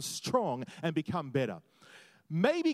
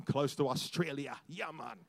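put-on a light Jamaican accent on close to Australia; half-joking Jamaican accent, then a soft yeah man; 4 semitones lower, 4 dB quieter than usual. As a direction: toss in a playful Jamaican accent. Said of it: "I said Australia with a Jamaican accent".

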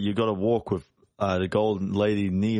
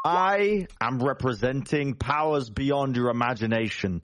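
intimidating boast; 3 semitones higher than usual. Acted. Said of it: "I am going to tower over this little man and intimidate".

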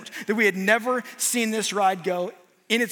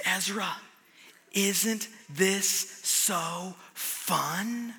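softer, very slow, sly teasing question; teasing dad; 3 semitones lower, 7 dB quieter, much slower than usual. Retold or imitated. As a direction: lean in and tease her gently. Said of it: "I lean over to her and I say".

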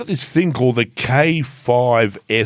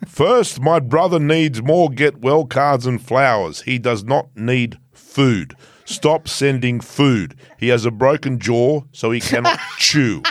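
lightly voiced pompous captain reading orders; mock captain. Reading the rider's team memo to listeners as a pompous captain. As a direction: read the memo as a stiff self-important captain. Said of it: "Sean Connery doing Russian".

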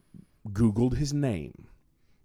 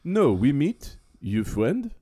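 lightly imitated Chadian accent; much slower than usual. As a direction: play an insistent Chadian man in broken English. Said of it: "He goes".

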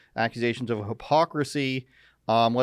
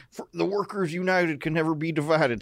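mock southern-accented rallying chant, pitched up; 5 semitones higher than usual. Host jokes about provinces voting NDP, southern accent. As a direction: chant it like a southern union organizer. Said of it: "said that in a southern accent".

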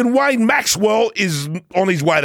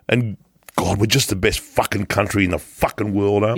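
Boris voice; 7 semitones lower, faster than usual. Acted.

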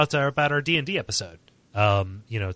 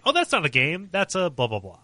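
mocking dismissive critic; 4 semitones higher than usual. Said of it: "I get angry when people say".

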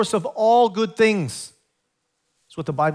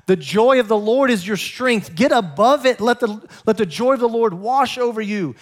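God's rousing exhortation; 2 semitones higher than usual. Acted. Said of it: "God is saying in this holiday".

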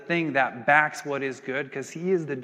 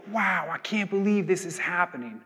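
higher, lightly acted wonder; amazed; 4 semitones higher than usual. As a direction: marvel in mock disbelief. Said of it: "they're amazed".

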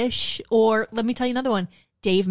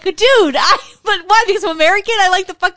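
mock angry rant; 10 semitones higher, 8 dB louder, faster than usual. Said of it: "I was like".

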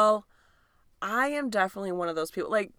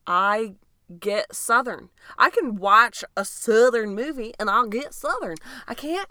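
exaggerated yokel Southern twang; hammed-up Southern; mock Southern accent. Shown as a demonstration. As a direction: slip into a Southern accent, poking fun. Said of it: "That was yokely. That was making fun of".

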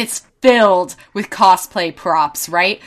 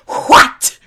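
put-on vine girl; 7 dB louder than usual. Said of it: "Like that little girl in that vine".

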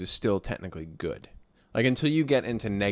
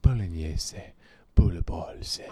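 slow Italian "Bolognese" as po-li-nyeh-zeh; "Bolognese" drawn out in an Italian accent; Italian pronunciation; 5 semitones lower, much slower than usual. Shown as a demonstration. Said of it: "That's how you say it".

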